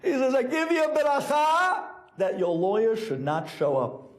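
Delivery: high-pitched words through acted laughter; imitating a Rebbe in hysterics; laughing hysterically. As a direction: giggle through the denial. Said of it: "starts giggling and laughing hysterically".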